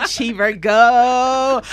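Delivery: slow, drawn-out American twang; American accent. Retold or imitated. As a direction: imitate her American twang. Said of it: "Why put an American accent?".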